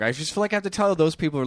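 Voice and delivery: fast, wired rush; too much caffeine. Real, not acted. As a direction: rattle it off over-caffeinated. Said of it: "I am so wired right now".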